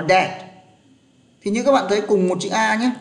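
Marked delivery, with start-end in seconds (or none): 0.0-0.5 "đẹp" with a short open e vowel; correct reading. Shown as a demonstration. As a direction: say "đẹp" short, neither ay nor o. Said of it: "Đọc là đẹp". (đọc "đẹp" với âm e ngắn)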